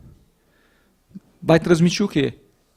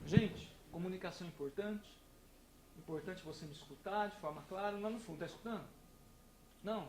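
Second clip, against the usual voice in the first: barely audible mumbled lecture; very quiet; 29 dB quieter, faster than usual. Shown as a demonstration. Lecturer showing a class how too soft a voice loses them, very quiet. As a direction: speak so softly the back row can't hear. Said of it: "Se eu vier aqui com o mesmo conteúdo e falar assim".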